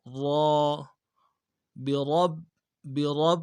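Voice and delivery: برب with a full heavy ra. Shown as a demonstration. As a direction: round the ra in برب heavily. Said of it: "را کو موٹا پڑھنا ہے". (برب میں را کو موٹا اور تشدید کے ساتھ)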